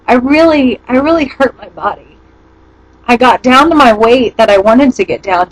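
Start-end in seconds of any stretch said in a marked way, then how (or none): 0.1-2.2 teary, holding back tears; after crying. Real, not acted. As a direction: voice thick with tears. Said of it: "Sorry, I get kinda teary".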